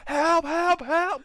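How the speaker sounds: high-pitched calls for help; high, drawn cries of help; mimicked help cries. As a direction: imitate someone calling from far away. Imitating muffled cries he heard.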